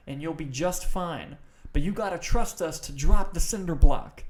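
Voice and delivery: high, slow, drawn-out lecturing voice; mock frat instructor. Voicing frat leader instructing pledges.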